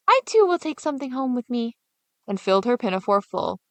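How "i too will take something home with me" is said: put-on eager girl. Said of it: "And Gretel said".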